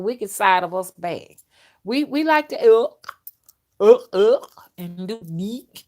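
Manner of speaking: spirit voice. Acted. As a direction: let the wicked spirit take over the voice. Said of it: "when y'all hear me talking like that, that is a spirit".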